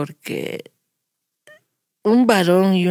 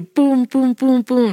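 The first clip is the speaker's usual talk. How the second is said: imitated knocking; 6 semitones higher, 4 dB louder, slower than usual.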